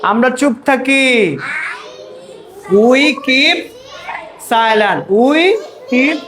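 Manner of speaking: word by word, with gaps between; slow call-and-response drill. Real, not acted. Teacher drills pupils on keeping silent, slow chanting. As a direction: model it slowly for the class to echo. Models slow phrase for class to repeat.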